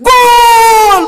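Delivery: very high, very loud long-drawn GOAL; gol çığlığı taklidi. Acted. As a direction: yell it like a football crowd at a goal. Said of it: "মানে তখন কইতে হয় না".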